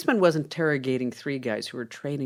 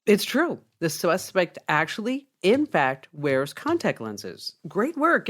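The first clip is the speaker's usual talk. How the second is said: pleased amazement; 4 semitones higher than usual. Acted. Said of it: "comes back with a smile on his face".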